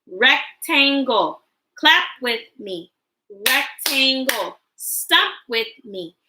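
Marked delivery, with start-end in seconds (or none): 0.1-1.4 "Rectangle" broken slowly into separate beats; split into syllables. Shown as a demonstration. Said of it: "Break words into parts with me". 3.5-4.6 "Rectangle" broken into separate beats; split into syllables. Shown as a demonstration. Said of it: "Break words into parts with me".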